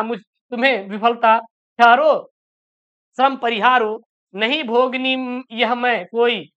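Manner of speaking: slow, measured verse reading with drawn-out words; poem recitation. Acted. Teacher reading a Hindi poem to students, slow recitation. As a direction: recite line by line, pausing between phrases.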